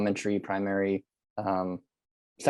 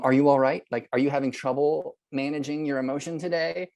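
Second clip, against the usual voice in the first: sarcastic; 4 semitones higher than usual. Shown as a demonstration. Teacher showing the wrong sarcastic way to ask a student. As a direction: sneer the question with fake care. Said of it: "not in a sarcastic way".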